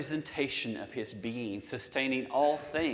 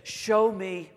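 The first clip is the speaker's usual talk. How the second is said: bold request; 4 dB louder than usual. Retold or imitated. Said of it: "He said".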